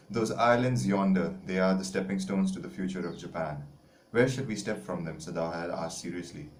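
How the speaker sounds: measured textbook reading to a class; careful classroom narration; story read-aloud. Acted. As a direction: read the story out clearly for students.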